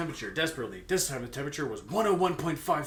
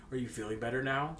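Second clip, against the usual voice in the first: concerned tone. Acted. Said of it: "with a concerned tone in his voice".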